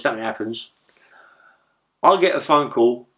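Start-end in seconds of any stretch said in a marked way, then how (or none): 0.0-0.7 hushed whisper; breathy whispered aside. Real, not acted. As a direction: drop to a whisper. Hushed aside in gangland story.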